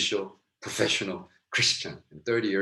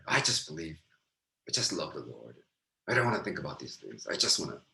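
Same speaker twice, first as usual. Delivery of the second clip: softer, mock-simple believer; mocking pious voice; 2 semitones lower, 4 dB quieter than usual. Preacher mocks believers who switch off their brains, lightly. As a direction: parody a naive believer lightly. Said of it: "they're, like, acting dumb".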